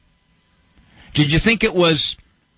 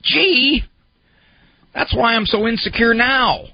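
imitating a self-pitying client; 4 semitones higher than usual. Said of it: "you look back on that and you say".

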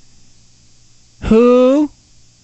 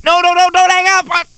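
high mock-panicked plea on one pitch; frantic, begging the child to stay on; panicked pleading; 12 semitones higher than usual. Caller to a child about to hang up, panicked.

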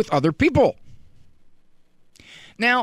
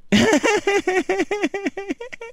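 put-on high, rising child's giggle; toddler giggle; 13 semitones higher than usual. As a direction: giggle like a tiny kid.

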